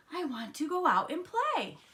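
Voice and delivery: put-on high, eager kid-frog voice; eager yell. A narrator's reading. Froggy waking up ready to play, eager yell. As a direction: call it out high, bursting to get outside. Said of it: "Froggy woke up and yelled".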